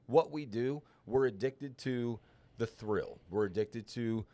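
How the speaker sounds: talking around a dip; chewing tobacco. Real, not acted. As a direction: mouth full of dip. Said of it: "why I have a dip in my mouth right now".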